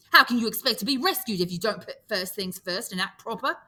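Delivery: put-on a boy lecturing loudly; indignant scolding. Piggy scolding the boys about rescue, indignant and loud. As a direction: push the reproach hard. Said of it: "Piggy lost his temper".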